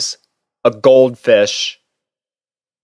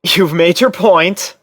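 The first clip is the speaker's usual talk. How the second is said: with a small laugh; 7 semitones higher than usual. A narrator's reading. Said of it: "with a small laugh".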